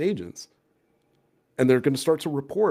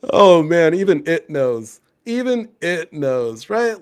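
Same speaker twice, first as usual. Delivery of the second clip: laughing disbelief; 6 semitones higher, 9 dB louder, slower than usual. Real, not acted.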